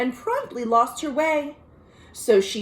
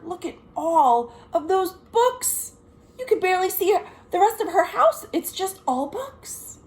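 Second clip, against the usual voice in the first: higher, slowing, then faster, marvelling; amazed; 7 semitones higher than usual. Real, not acted. Showing children the book-filled house, amazed.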